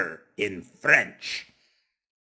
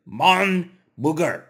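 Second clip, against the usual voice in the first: "Mon booger" called out louder as a drill, mock French accent; teacher calls out "Mon booger" for the class to repeat in a fake French accent; 5 semitones higher, 4 dB louder than usual. Shown as a demonstration. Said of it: "Say it with me".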